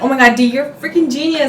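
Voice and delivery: high, loud, delighted praise; excited high praise; amazed praise. Retold or imitated. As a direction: gush at a friend's brilliant idea. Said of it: "I'm like".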